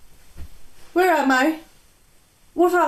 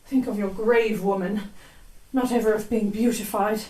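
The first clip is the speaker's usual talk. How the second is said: softer, lower, dreamlike recitation; a sleepwalker murmuring verse; strange sleepwalking voice; 3 semitones lower, 4 dB quieter than usual. Acted. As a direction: speak poetry as if in a trance. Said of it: "speak in a strange voice and utter poetry".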